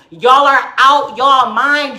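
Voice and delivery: slow, stretched-out rebuke; drawn-out exasperation; appalled disbelief. Real, not acted. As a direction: spell it out slowly, word by word.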